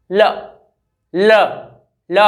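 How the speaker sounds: ल said simply, with no vibration; short separate ल with no trill; plain l drill. Shown as a demonstration. Teacher contrasts ल with the tapped र, said simply. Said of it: "simplest form में आवाज़ निकालता है".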